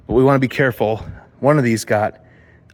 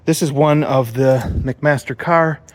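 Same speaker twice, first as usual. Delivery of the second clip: panting between words; winded, catching breath while talking; 2 semitones higher than usual. Real, not acted. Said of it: "Sorry, I'm huffing and puffing".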